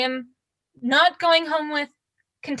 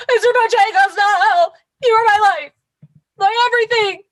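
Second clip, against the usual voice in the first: mock anguished wail; 4 dB louder than usual. Wailing at losing the dummy.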